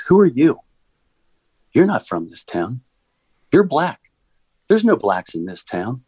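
mock accusing outburst, jumping high on key words; retold yelling. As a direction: imitate a hostile heckler in punchy, separate bursts. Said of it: "she jumps out screaming and yelling".

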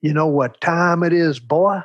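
imitating a condescending Texas principal; good-old-boy principal. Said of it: "they talked like this".

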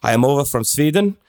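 lightly imitated Swedish accent; a hint of a Swedish accent. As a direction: mimic a Swede speaking English. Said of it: "a, an accent".

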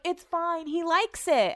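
mock dismissive Brett. Mocking Brett's dismissive reply.

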